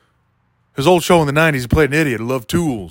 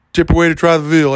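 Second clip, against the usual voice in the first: stock comic line; 3 semitones higher, 5 dB louder than usual. Pretend. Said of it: "one of those lines".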